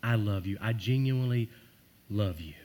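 sincere loving murmur; tender I love you. Shown as a demonstration. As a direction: tell them gently every day. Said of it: "tell them every day".

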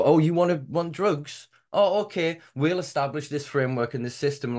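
high, loud mock of pompous officialdom; pompous authority. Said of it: "it's so pompous and so quintessential".

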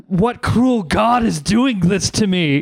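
slow, high, theatrical cry to the heavens; mock anguished lament. The tormented man cursing the gods, slow mock lament. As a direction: ham up the despair, slowly.

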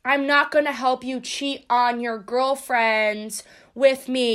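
slow and firm, self-righteous; slow, firm refusal. Retold or imitated. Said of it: "to be like".

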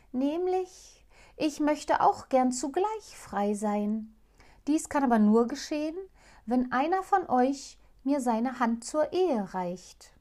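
lightly voiced owl princess, hopeful; owl princess pleading. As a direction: ask for a husband, shyly eager. Owl states her wish.

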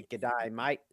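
low-pitched put-on Aussie drawl; imitation Australian accent. Shown as a demonstration. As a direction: demonstrate a stock Australian greeting. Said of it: "Australian accent".

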